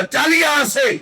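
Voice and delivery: retold angry dismissal. Crowd driving Jonah off the boat, retold as an angry shout. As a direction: act out a crowd shouting someone away.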